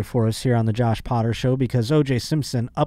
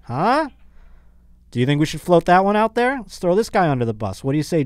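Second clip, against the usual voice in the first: pushy lawyer pitch; 6 semitones higher than usual. Pretend. Host as dream team lawyer pitching O J, excited and high. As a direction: sell the scheme hard to the client. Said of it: "I would have been like".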